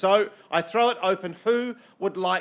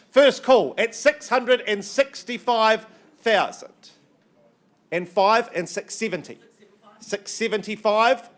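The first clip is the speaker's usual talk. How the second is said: projected calls with stretched-out figures; auctioneer's bid calling; 4 semitones higher, 4 dB louder than usual. Real, not acted. Auctioneer giving final calls at six seventy-five, deliberate bid calling. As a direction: hold the room in suspense between calls.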